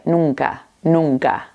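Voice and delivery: NUNCA with its second N softened to "nung-ka"; N adouci. Shown as a demonstration. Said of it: "es mucho más suave".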